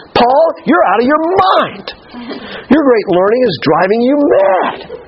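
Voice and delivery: high, drawn-out shout, stretching out the words; acted outburst, screaming his head off; loud voice. Festus interrupting Paul's defense before Agrippa, shouting in full voice. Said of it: "in a loud voice".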